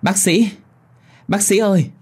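high calling voice from afar; high, urgent calling out. Acted. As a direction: call out to the doctor. Ghost calling after the doctor.

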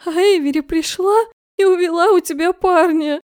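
loud sobbing accusation; tearful accusation. A narrator's reading. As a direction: wail it out, crying. Crying girl accuses rival.

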